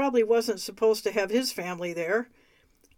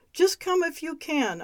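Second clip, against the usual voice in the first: urging; 6 semitones higher than usual. A narrator's reading. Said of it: "I urged".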